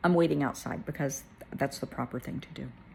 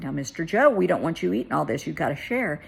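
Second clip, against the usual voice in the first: firm, playful telling-off; retold good-natured teasing; 5 dB louder than usual. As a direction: tease him with a mock warning. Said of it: "she was teasing Daddy".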